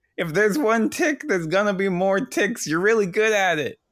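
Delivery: shouting. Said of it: "I'm yelling".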